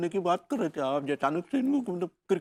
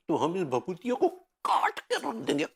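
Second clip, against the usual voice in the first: mock-heroic threat; 2 semitones higher than usual. Swears revenge for the sake of भाभी जी, hammed-up threat. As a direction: stretch the threat out, climbing as it repeats. Acted vow to chop the rival.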